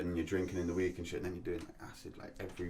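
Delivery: real hushed, confiding tone; half whispering. Real, not acted. Telling friends about past drug binges, half whispering. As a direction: drop the volume as if sharing a secret. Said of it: "Don't know why I'm whispering".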